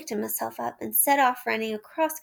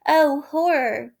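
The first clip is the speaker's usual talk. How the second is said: louder, slow alarmed cry; horror; 3 semitones higher, 7 dB louder, slower than usual. A narrator's reading. Narrator spotting the policemen, horrified. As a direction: gasp in dismay.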